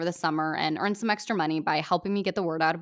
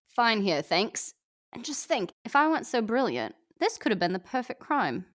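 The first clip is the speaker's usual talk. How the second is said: put-on a lightly done Australian accent, smug; 4 semitones higher than usual. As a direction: Fat Amy boasting to Aubrey, light Australian accent. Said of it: "my first crack at an Australian accent".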